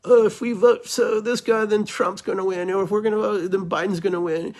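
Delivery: high, mocking whiny voice; mocking the voters. Mocking the voters who fool themselves, high mock whine. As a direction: mimic the self-deceiving voter. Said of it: "we bullshit ourselves that".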